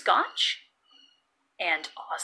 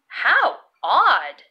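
puzzled exclamation; 2 semitones higher, 5 dB louder than usual. Acted. Todd remarks on odd sight.

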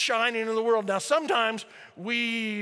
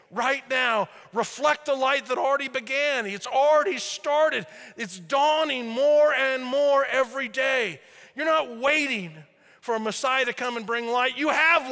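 fervent, louder preaching; yelling; 3 semitones higher, 3 dB louder than usual. Real, not acted. Preacher getting carried away with excitement, yelling. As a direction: preach it out with fire. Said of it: "Sorry, I'm yelling".

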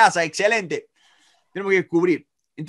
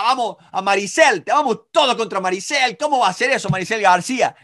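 mock indignant tirade; 3 semitones higher than usual. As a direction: act out rallying everyone against someone. Acts out a hostile accuser. (indignación fingida, en tono más agudo)

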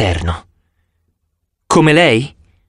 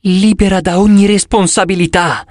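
high, drifting echo of "ogni"; dreamy voice; 8 semitones higher than usual. Acted. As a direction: float the words, lost in a wish. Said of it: "con voce sognante".

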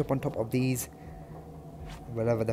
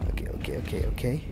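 whispered self-calming; 2 semitones lower, 5 dB quieter than usual. Real, not acted. Player hiding from the monster, whispering to himself. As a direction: breathe the words to steady yourself.

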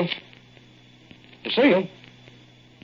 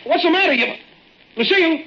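calling out; 9 semitones higher, much faster than usual. Acted. Calling anxiously for Lucille.

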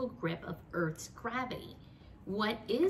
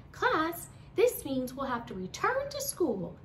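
teacher voice; 7 semitones higher, 4 dB louder than usual. Acted. Teacher Frizzle addressing class.

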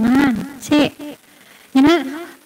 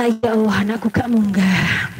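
mock despair; 6 semitones lower than usual. Mother grieving the child failed.

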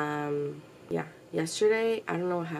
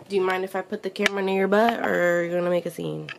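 telling the dog off; 8 dB louder than usual. Real, not acted.

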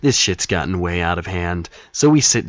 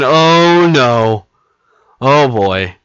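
panicked; 5 semitones higher, 9 dB louder, much slower than usual. Retold or imitated. Dread as the teachers arrive.

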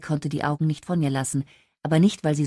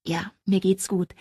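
slow, unvoiced whisper of reassurance; 4 semitones higher than usual. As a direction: breathe it out, overwhelmed. Second take, whispered.

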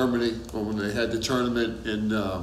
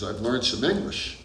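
lightly imitated German accent; 4 dB quieter than usual. Friend retelling a German player showing off English, light German accent. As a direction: quote him with a hint of German accent. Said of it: "in a German accent".

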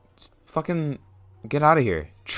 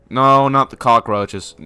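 loud, rapid string of panicked no's; alarmed; 5 dB louder than usual. Real, not acted. Player spotting cockroaches, loud alarm fading. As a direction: cry out in alarm, then tail off.

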